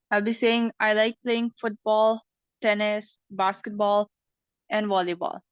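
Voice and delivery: rising list, falling on the last word; teacher demo, list tune rising then falling; list intonation. Shown as a demonstration. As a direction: rise on each item, fall on volleyball. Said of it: "the last word here is the falling intonation".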